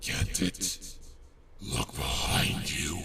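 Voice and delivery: breathy, menacing demon whisper; scary demon voice. Acted. Demon monster scares Rarity with a creepy breathy voice. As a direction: make it creep up her spine. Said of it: "If I hear this voice anymore, I'm gonna get nightmares".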